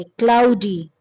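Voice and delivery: क्लाउडी with a clear, long ee at the end; final ee sound. Shown as a demonstration. Teacher showing learners the Y sound, क्लाउडी ending in long ee. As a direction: hold the closing ee of क्लाउडी. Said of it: "इसकी आवाज ई".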